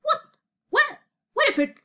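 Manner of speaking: high, startled, broken questions; burbled confusion. A narrator's reading. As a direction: burble it in bewilderment, word by word. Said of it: "he burbled".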